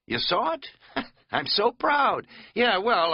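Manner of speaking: high, laughing and slow with pride; proud laugh. Acted. Katz to Bryson, laughing proudly about his trail sign. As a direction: beam with silly pride.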